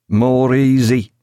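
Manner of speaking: a touch of Killick's grumble; grumbling old seaman. A narrator's reading. Killick advises Badine, gruff.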